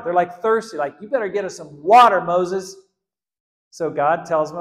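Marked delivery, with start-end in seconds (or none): 1.0-2.7 loud, fast angry demand at Moses; demanding shout. Retold or imitated. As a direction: bark it like a thirsty crowd. Thirsty people demanding water.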